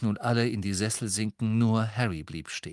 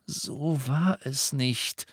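slow, tight words through gritted teeth; Harry angrily denying; 5 semitones higher, much slower than usual. Acted. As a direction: hold the anger in and grind it out. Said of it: "mit zusammengebissenen Zähnen".

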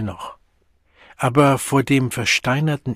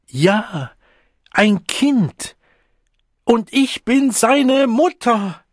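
much higher, slow defiant cry; 11 semitones higher, 6 dB louder, much slower than usual. A narrator's reading. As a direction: hurl it at them. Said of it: "Herausfordernd schleuderte sie".

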